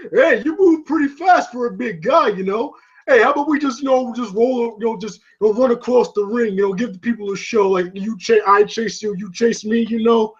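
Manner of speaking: lightly voiced boxer's chatter; a hint of a movie boxer impression; Rocky. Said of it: "and then Rocky going".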